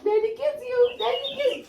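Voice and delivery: high, soft doting coo. Pretend. Cooing to baby.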